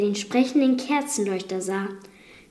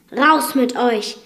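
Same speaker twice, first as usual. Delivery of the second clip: booming thunder voice; 2 semitones higher, 5 dB louder than usual. Acted. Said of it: "sagte das Biest donnernd, mit donnernder Stimme".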